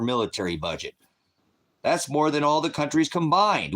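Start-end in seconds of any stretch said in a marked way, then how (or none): 1.8-3.7 higher and louder, driving the point home; angry emphatic shout. Real, not acted. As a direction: yell it so they finally hear. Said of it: "Did you hear what I just said?".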